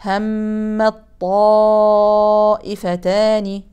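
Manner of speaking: همت طائفتان merged into one doubled ta'; connected reading. Shown as a demonstration. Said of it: "أما وصلا". (قراءة وصلا)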